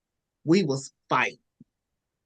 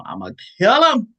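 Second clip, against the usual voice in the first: higher, louder and fast; furious outburst; 6 semitones higher, 6 dB louder, faster than usual. Retold or imitated. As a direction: spit the threat out in rage. Angry at boyfriend, retold.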